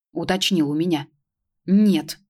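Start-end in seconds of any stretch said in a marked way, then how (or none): 1.7-2.2 grumbled. Acted. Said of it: "буркнула я".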